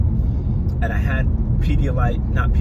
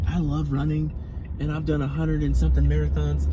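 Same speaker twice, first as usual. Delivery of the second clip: enthusiastic runner voice; 5 semitones higher than usual. Retold or imitated. Mimicking marathon-loving runners.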